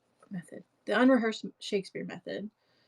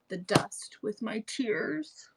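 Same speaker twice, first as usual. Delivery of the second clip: whisper; slower than usual. Acted. Mock weeping line in monologue.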